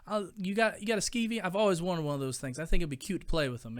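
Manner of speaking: surprisingly high, eager voice from a big tough guy; gangster guy, gushing. Retold or imitated. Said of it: "And the guy's like".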